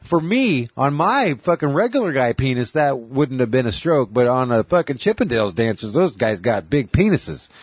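a hint of Bill Burr's pissed-off ranting. Retelling Bill Burr explaining the stroke in a mock irate voice. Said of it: "He talks like he's fucking pissed off".

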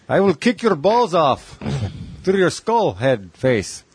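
put-on hardened final consonants, slow Russian accent. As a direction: play a tough Russian, slow and heavy. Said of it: "I can talk like Russian".

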